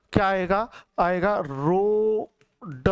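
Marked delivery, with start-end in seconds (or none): 1.4-2.9 रोड drawn out slowly with a plain ड, no dot; slow teacher's model of रोड; slow demo of रोड. Shown as a demonstration. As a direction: stretch रोड slowly to show the sound. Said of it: "ये बिंदु नहीं आएगी नीचे".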